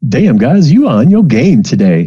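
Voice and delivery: lightly voiced cool TA; impressed TA. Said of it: "she's like".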